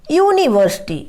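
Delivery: "यूनिवर्सिटी" begun with a clear "yoo" glide; Y-U consonant sound. Shown as a demonstration. Teacher shows students how the word starts, "यूनिवर्सिटी" with a "yoo" sound. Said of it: "वाई यू मिला करके sound इसका निकलता है".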